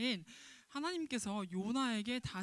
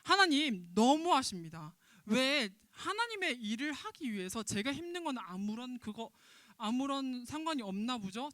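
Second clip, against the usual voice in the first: mild angry protest. Retold or imitated. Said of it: "하나님께 썽을 냅니다".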